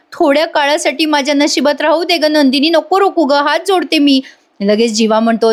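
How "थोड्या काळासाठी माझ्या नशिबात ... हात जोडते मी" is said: higher-pitched, imploring voice; acted pleading. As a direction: beg her as if with folded hands. Arya begs Nandini with folded hands.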